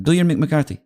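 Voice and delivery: high imitated manager's accent; Mourinho. Manager repeats his request to the comic, imitated accented insistence. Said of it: "And he went".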